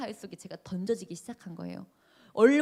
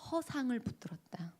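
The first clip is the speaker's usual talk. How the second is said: soft unvoiced breath of a solemn word; hushed whisper; 2 semitones higher, 7 dB quieter than usual. The director speaking God's verdict to the student, in a whisper. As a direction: whisper it, a grave secret rebuke.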